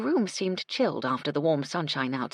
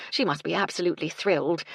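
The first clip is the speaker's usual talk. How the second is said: bright, happy approval; glowing for Gertie's good news; pleased; faster than usual. Acted. Cecily happy about Gertie.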